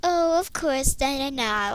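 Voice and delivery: mocking "of course, na na na"; sarcastic. Shown as a demonstration. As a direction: imitate your own snarky tone. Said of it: "Did I say that like".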